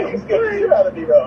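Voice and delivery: high laughing after a fright; laughing shaky. Real, not acted. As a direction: laugh through it, startled.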